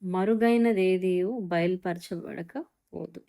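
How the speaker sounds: slow solemn verse. Shown as a demonstration. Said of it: "దేవుని వాక్యం చెప్తుంది".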